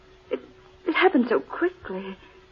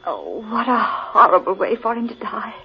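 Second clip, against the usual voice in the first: tearful breathy whisper over the dead; whispered grief. Acted. Woman mourning dead Crane, whispering through tears. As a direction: voice choked down to a whisper. Grieving over a strangled companion.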